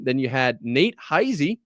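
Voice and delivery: slow, with a held pause before the name; dramatic pause. Shown as a demonstration. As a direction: draw out Nate Heise, then let it hang. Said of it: "Pause for dramatic effect there".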